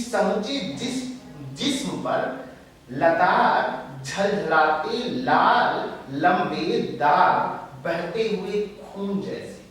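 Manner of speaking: drawn-out, emphatic verse; weighty recital with pauses between words; poetry recitation. Acted. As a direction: declaim it word by word. Recites the poet's lines.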